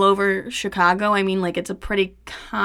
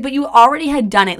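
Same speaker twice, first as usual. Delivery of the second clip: quick, louder outburst; exasperated retort; 4 semitones higher, 6 dB louder, faster than usual. Retold or imitated. Arguing with her ex about the money, an exasperated quick retort. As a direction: cut him off, fed up.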